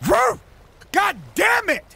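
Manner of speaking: high loud whoop of relief; triumphant whoop. Real, not acted. Gamer after a narrow save, loud high whoop. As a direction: let it rip in triumph. Celebrates a catch.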